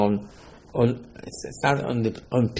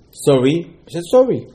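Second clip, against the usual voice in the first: high mock sorry; 4 semitones higher, 4 dB louder than usual.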